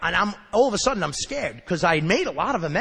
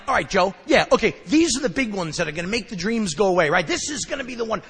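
sarcastic; 2 semitones higher than usual. Retold or imitated. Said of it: "now I'm getting sarcastic".

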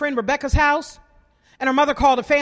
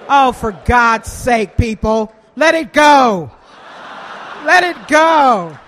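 mock pleading; 7 dB louder, much slower than usual. Real, not acted. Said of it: "telling audience to calm".

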